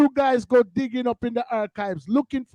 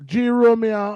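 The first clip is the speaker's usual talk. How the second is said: loud shout-out; 2 semitones lower, 6 dB louder than usual. Real, not acted.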